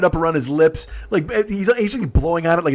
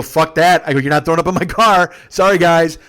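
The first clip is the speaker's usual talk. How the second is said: loud refusal; 2 semitones higher, 7 dB louder than usual. Retold or imitated. Driver refuses vomiting in his car.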